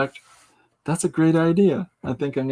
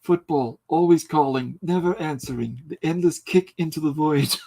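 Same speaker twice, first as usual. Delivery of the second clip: Herzog reading Peanuts. Pretend. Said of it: "as read by Werner Herzog".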